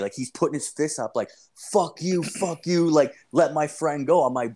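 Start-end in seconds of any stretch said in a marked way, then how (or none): 1.6-4.2 imitated defiance. Kid bowing up to the storyteller, imitated defiance. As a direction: kid squaring up, mildly raised pitch. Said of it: "he's, like, bowing up to me".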